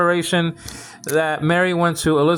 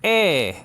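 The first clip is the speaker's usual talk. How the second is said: a lone "E", raised and accented; "E" pitched up as an accent demo; emphasised first syllable; 3 semitones higher than usual. Shown as a demonstration. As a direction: give the syllable "E" a firm lift. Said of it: "put the emphasis on the first syllable".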